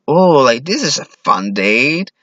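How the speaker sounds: be pleased, missing all danger; oblivious delight. Acted. Clueless date to serial killer in alley, cheerful.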